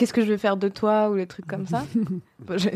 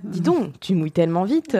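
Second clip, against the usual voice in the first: deliberately hammy lover line; bad acting. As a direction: overplay it badly on purpose. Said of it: "J'ai envie de jouer mal".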